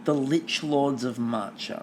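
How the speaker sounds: low, slow doom voice; ominous dramatic. Pretend. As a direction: intone it like a dark prophecy. Repeats ominous title.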